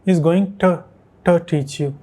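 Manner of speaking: TO as "tuh", split out; native form, broken down. Shown as a demonstration. Teacher breaking down the native way, TO as "tuh". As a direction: break GOING TO apart with a reduced "tuh". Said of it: "ये कुछ इस तरह से बोलते हैं".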